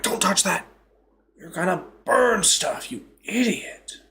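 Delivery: mock-scold a student, drawing out the last words; scolding teacher. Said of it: "They're like".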